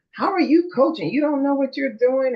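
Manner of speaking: mild mimicked rant at a coach; retold scream. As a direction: imitate a heckling parent without really shouting. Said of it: "he started screaming".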